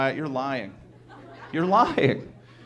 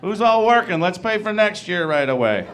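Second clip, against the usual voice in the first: excited shout; 4 dB louder than usual. Retold or imitated. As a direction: call out eagerly to the staff. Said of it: "be like".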